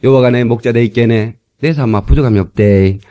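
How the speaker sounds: Gyeongsang dialect, lightly done; 경상도 사투리. Shown as a demonstration. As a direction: recite it in a low-key Gyeongsang accent. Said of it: "저번에 경상도 버전으로". (경상도 사투리로 낭송)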